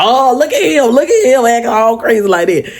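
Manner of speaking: high, laughing mockery; mock him with laughter; teasing friends. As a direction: friends teasing the boyfriend for being protective. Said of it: "They were like".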